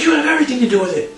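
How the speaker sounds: fast, high imitation of an angry wrestler; mock accusation. Co-host retells attacker choking the wrestler, mock accusation. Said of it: "he's like".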